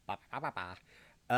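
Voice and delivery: mock head-shaking babble; dismissive babble. Shown as a demonstration. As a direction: brush it off with nonsense syllables. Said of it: "now I'm doing the head thing for myself".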